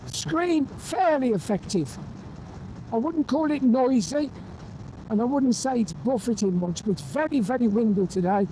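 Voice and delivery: talking through helmet wind roar; motorbike helmet intercom. Real, not acted. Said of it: "I'm getting quite a lot of wind noise".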